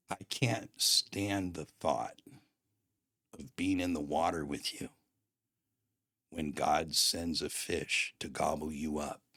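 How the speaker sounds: slow, weighted delivery with long pauses; grave confrontation. Retold or imitated. Pastor friend's confrontation retold.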